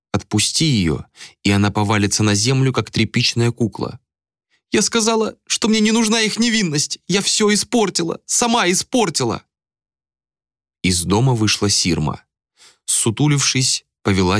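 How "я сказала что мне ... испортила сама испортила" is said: high wailing self-blame; breaking under guilt; despairing lament. A narrator's reading. Malika blaming herself, high and despairing.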